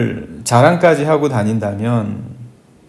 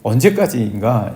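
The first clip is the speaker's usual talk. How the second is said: slow, sighing lament that sinks away; a touch of tired complaining to God. Retold or imitated. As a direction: let each question drag out with a weary sigh. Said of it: "이렇게 원망하고 탄식하고".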